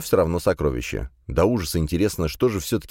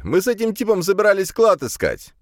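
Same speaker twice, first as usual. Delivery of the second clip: high, loud blurting; indignant high-pitched outcry; yelling protest; 4 dB louder than usual. A narrator's reading. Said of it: "завопил я".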